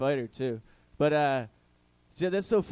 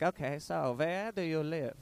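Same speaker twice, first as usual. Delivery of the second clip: slow, softer mock German accent; 5 dB quieter than usual. German woman's second question to the comic, slow German accent. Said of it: "demure German accent".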